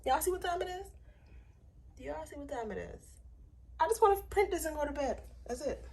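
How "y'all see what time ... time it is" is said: whispered, higher; exasperated whisper. Real, not acted. To viewers about the late hour, whispered complaint. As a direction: hush it to the viewers.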